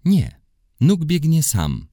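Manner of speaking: put-on boy proudly correcting a friend; emphatic correction. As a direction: insist proudly. Maciek corrects the guess.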